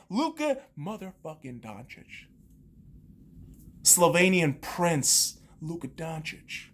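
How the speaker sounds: soft, slow ring-announcer intro; announcer hype. Pretend. Fan hyping his boy Luka, slow announcer style. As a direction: introduce him like a champion.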